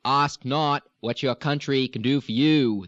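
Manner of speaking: Kennedy-style Boston, lightly voiced; a touch of JFK speechmaking; Kennedy accent. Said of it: "Kennedy-esque".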